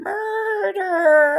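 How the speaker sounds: croaky, raspy dying crow squawk. Like a joker cawing one raspy word for the audience, throat scratched and the sound cracking with effort. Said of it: "I sound like a dead crow, a dying crow".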